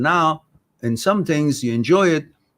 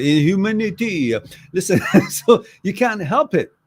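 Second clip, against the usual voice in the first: French accent; 4 semitones higher, 4 dB louder than usual. Shown as a demonstration. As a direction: repeat it in a mock French accent. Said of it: "that was a French accent".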